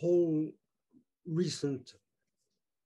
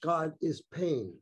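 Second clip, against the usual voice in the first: louder, measured poetry reading voice; poem reading; 4 dB louder than usual. Acted. Poet reading his book of infernos to an audience, declaiming. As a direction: declaim each poem to the listeners.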